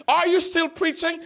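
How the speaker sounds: high-pitched imitation of an incredulous passerby; surprised question. Lady who recognizes the pastor asks him, mock surprise. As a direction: ask it high, as if taken aback.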